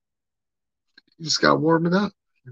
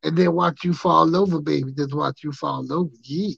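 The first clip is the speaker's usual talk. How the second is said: Dusty Rhodes impression. Doing Dusty Rhodes for his British coworker, lightly lisped and drawled. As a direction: ham up the Dusty lisp and call everyone baby. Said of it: "doing the whole voice with the lisp".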